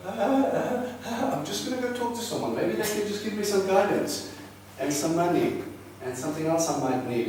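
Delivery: high, flustered mock panic with a laugh; panicky believer. Preacher mocking a panicky believer, high flustered voice. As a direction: play the flustered believer running for help.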